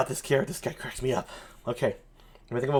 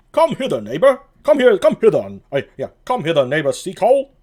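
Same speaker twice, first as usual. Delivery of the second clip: calling out; 3 semitones higher, 4 dB louder, faster than usual. Acted. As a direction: bark him over to you. Dogberry calling a watchman.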